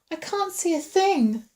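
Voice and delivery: high-pitched, frightened complaint; fearful call. A narrator's reading. Woman blind in the dark, calling fearfully. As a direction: let fear lift the voice high. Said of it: "she called back fearfully".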